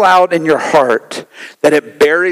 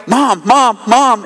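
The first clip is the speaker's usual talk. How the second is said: mild mock call, pitched higher; higher-pitched nagging, not truly yelled; mock yelling child; 5 semitones higher, slower than usual. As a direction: imitate a kid calling out insistently. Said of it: "instead of yelling out".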